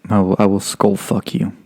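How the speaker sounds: slow, mild imitation of a menacing instructor; lightly voiced threat; understated mock threat; drill instructor threat. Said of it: "worst thing they said to you".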